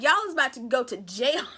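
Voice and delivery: amused loud warning; loud joking exclaim. Real, not acted. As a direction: call it out loud. Joking reaction to family arson.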